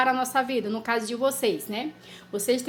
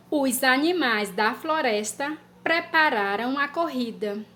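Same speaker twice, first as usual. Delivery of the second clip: dictation pace. Shown as a demonstration. Teacher dictating a sentence to children. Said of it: "Três".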